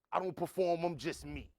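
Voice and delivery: loud retold protest; insistent. Host quotes the next performer refusing the label, insistent. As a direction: raise the voice in mild mock insistence.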